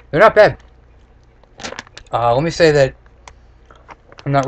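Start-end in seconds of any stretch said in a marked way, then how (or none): 0.1-0.6 pleasantly surprised, higher and louder. Real, not acted. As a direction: react like you didn't expect it to be good. Surprised by the taste.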